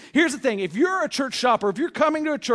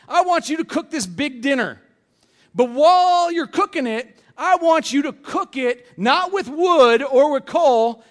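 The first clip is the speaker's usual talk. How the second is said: voice of God; 5 semitones higher, 5 dB louder than usual. Pretend. God speaks to Ezekiel.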